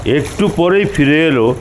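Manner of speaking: usual speaking voice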